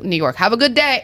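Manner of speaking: lightly imitated New York accent; a hint of New York guys wishing you well. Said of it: "like they're New York accents".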